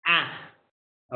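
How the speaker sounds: short a from the throat; throaty a vowel. Shown as a demonstration. Teacher models the vowel for students, short throaty a. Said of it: "where you use your throat".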